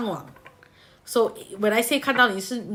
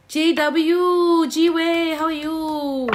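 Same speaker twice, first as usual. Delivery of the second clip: excited greeting; 7 semitones higher, 7 dB louder, much slower than usual. Real, not acted. Greeting a viewer in the live chat.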